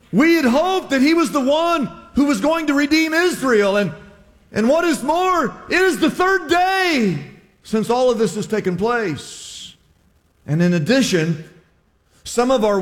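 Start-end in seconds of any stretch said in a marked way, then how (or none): 0.1-9.8 high, rising to a shout; impassioned lament. Acted. Disciple to the stranger, lament rising to a cry. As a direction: pour out the broken hope, building.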